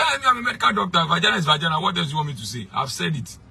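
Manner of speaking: high indignant impression of a bishop; imitating the bishop. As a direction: squeak out the bishop's defence indignantly. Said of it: "He said".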